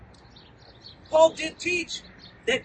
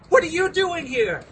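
shocked cry; 5 semitones higher, 5 dB louder than usual. Retold or imitated. Shocked meeting your mugger.

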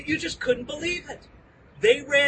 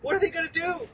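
stunned dismay; 6 semitones lower, 3 dB quieter than usual. Retold or imitated. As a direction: breathe it out as if caught by enemies. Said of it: "Paul's like".

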